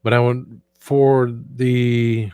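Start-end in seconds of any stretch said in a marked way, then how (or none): none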